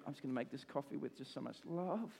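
softly, lovingly said mock devotion; tender. Preacher acting out making coffee lovingly, tender. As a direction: make it soft and full of love.

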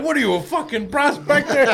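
mock a Southern hick; mock Southern accent. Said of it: "talking to Southern accent".

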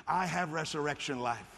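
strong confident declaration; with some strength. Shown as a demonstration. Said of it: "say it with some strength".

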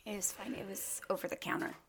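words between sips of bubbly; talking while drinking; while sipping a drink. Real, not acted. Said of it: "sorry, I'm drinking bubbly".

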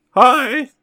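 put-on high-pitched Russian accent, cracking; bad squeaky Russian accent. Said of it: "My Russian accent's terrible".

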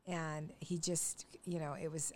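hushed, unvoiced aside; whisper. Real, not acted. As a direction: drop to a whisper recalling the pain. Painful memory, dropped voice.

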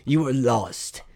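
slow, weighty movie-trailer read; slow dramatic narrator for the card shop ad; dramatic trailer narration. Acted. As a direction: pull them into a nostalgic flashback. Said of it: "Do Country Cards advertisement".

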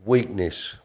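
usual speaking voice

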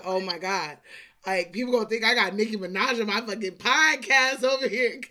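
loud, animated retold reaction; excited mock astonishment. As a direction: blurt it out as playful amazement. Mock-excited retelling of own reaction.

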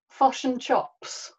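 slow sample of a Kiwi accent, short i turned to "uh"; exaggerated New Zealand vowels, "fush and chups". Shown as a demonstration. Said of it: "little sample of a New Zealand accent".

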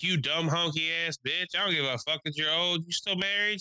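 mock trash talk. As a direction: rant at her in a put-on voice. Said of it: "he's scre".

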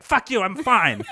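high, loud, slowed mock yell; imitated drunk defiance. Host imitating drunk friend brushing off concern, mock yell. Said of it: "You're like".

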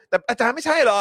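high, loud words through laughter; laughing aside. Real, not acted. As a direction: laugh it out as you speak. (พูดไปหัวเราะไปเสียงสูง)

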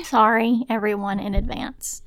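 apology aimed straight into the mic, first word punched; directly into the microphone. Real, not acted. Podcaster apologising in advance for poor audio, right into the microphone. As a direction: lean in and address the listeners. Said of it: "I say directly into the microphone".

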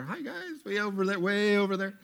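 high, soft sing-song greeting; a playful high call to distant listeners; calling to the fringes. Real, not acted. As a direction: wave hello to the far crowd. Greeting people far off.

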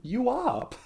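high-pitched put-on Austrian bodybuilder accent; Hans and Franz. Riffing on two oni with co-host, mock Austrian accent. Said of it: "We are, we are Hans and Franz".

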